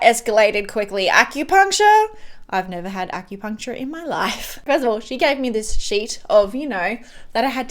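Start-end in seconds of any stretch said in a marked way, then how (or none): 1.1-2.1 high, louder disbelieving echo; can't believe the word; the word repeated in shock; incredulous question. Retold or imitated. Reacting to acupuncture suggestion.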